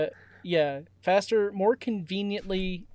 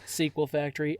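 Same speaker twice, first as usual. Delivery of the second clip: big showy hello, then lively scripted read; podcast intro announcer; 3 semitones higher than usual. Acted. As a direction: welcome listeners like a show host.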